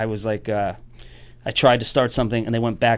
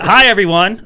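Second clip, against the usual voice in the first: high, loud cheery hello; bright hammed-up hello to the room; comic greeting a confused crowd, high and loud; mock greeting; 9 semitones higher, 10 dB louder than usual. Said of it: "Maybe I just went".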